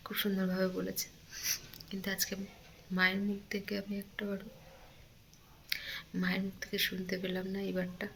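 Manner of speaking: real quiet sorrow, halting between phrases; hurting, subdued. Real, not acted. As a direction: miss a mother softly, pausing often. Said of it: "কষ্ট হচ্ছে". (কষ্টে থেমে থেমে, নিচু স্বরে বলা)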